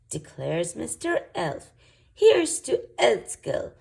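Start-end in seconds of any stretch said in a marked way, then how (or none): 2.1-3.7 high, loud toast; cheerful cry. Acted. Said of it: "cries Princess Holly".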